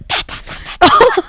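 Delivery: sharp percussive hair-tug sounds; rapid staccato noises miming each pull; imitated yanking noise. Shown as a demonstration. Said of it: "went like this".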